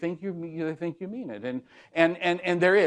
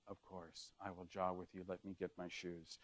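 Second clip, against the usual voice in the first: much lower and far softer; 7 semitones lower, 22 dB quieter than usual. Shown as a demonstration. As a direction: drop the voice to sound agreeable. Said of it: "lower your voice".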